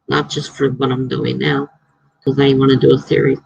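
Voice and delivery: talking through hiccups; words broken by hiccups. Real, not acted. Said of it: "I have hiccups".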